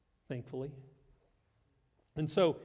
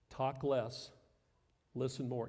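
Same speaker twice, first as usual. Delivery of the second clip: soft repeated slogan; 4 semitones lower, 5 dB quieter than usual. Shown as a demonstration. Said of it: "second way you can humble yourself".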